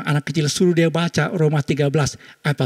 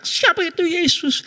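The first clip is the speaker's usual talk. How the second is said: high, slow shouted question; shouting preacher. Retold or imitated. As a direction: yell it, echoed by the child. (teriakan pendeta yang ditirukan)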